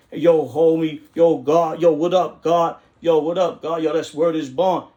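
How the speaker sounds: loud, high street slang greeting; hammed-up streetwise homie calling out; hip hop street talk. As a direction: shout it like greeting your boys on the block. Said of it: "That's racist, me talking like that".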